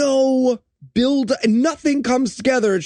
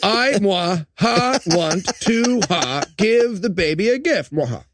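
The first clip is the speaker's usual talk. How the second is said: hammed-up villain; slower than usual. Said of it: "I didn't do it at the end there".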